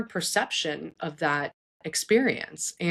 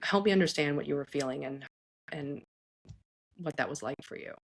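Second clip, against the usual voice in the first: gentle, caring request; 2 semitones lower, 6 dB quieter than usual. Shown as a demonstration. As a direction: ask tenderly, trailing softer. Models asking about the child's feelings.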